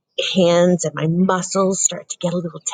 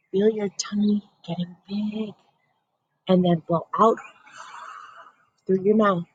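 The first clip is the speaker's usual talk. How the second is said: calm breathing guide. Shown as a demonstration. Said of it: "I wanna practice that with you".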